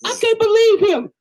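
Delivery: a high amused gasp of disbelief. Real, not acted. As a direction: squeal it out, can't believe it. Disbelief at the streamer.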